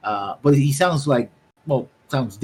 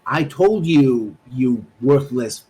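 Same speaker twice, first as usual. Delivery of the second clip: slow, louder, lightly voiced angry man; 2 semitones higher, 5 dB louder, slower than usual. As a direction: drag out the insult with contempt. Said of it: "It's like".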